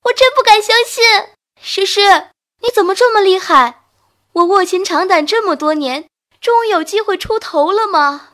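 high, loud, giddy squeal; bursting with joy; excited girl. A narrator's reading. Overjoyed girl hugging friend.

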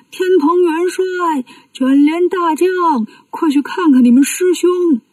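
high, slow urgent call from above. Acted. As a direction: summon them, stretching the titles. Dragon kings call down urgently.

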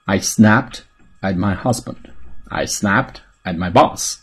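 measured repeat-after-me delivery, "snapped" lifted at the end; careful teaching demo; slow model reading. Shown as a demonstration. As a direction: model it in chunks for learners. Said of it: "来做跟读练习".

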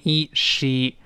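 “she” with a drawn-out ee; long e. Shown as a demonstration. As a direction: sound the “e” long, then join it into “she”. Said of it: "再发长音e". (拉长e，再拼成“she”)

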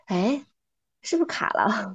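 unvoiced puzzled whisper; whispered doubt. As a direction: whisper it like a listener unsure. Listener wondering about a glitch. (听众小声嘀咕：是不是卡了)

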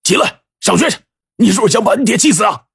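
high, fast, exasperated outburst; agitated scolding. A narrator's reading. Father ordering kneeling son to school, agitated. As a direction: lose patience and order him up. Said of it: "王书友就急了".

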